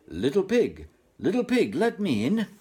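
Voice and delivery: high, loud sing-song wolf call. Acted. Wolf at the straw house door, loud high call. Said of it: "and cried".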